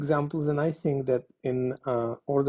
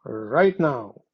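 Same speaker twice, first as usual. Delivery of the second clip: enthusiastic; much slower than usual. Shown as a demonstration.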